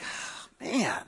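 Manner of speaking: soft, sighing dismay; heartbroken sigh. Acted. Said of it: "he's heartbroken".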